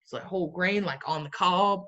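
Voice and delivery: put-on Southern accent; playful, lightly Southern-accented label reading. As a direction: read it with a light Southern twang. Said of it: "I'm doing this Southern accent".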